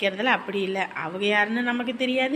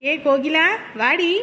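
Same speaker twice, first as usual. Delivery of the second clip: raised, higher-pitched call to a friend; a lively summoning shout; 4 semitones higher, 5 dB louder than usual. Acted. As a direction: call her over loudly. Calling a friend over.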